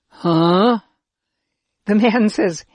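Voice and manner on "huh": startled, loud puzzled huh; gulp, then blurt it out. A narrator's reading. Children gulp at the man's riddle, startled huh. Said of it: "We gulp and say".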